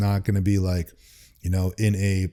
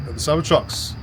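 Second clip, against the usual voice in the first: higher-pitched mock Australian accent; put-on Australian twang; 7 semitones higher than usual. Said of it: "It's a, it's a Australian".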